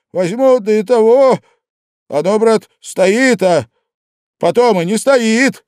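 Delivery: высоко и громко, юродствуя; кричит на всю комнату, перекрывая шум; вопль. Acted. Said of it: "завопил в выступлении Зимовейкин". (Зимовейкин вопит, перекрывая общий шум)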